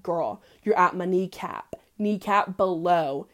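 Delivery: slow, sassy put-down; slow and sassy, set the boundary; sassy warning. Retold or imitated. She warns Jacob off her knee, slow and sassy. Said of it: "I was like".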